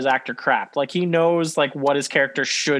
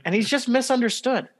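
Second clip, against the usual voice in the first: mock earnest; 4 semitones higher than usual. Ironic praise of the Predator.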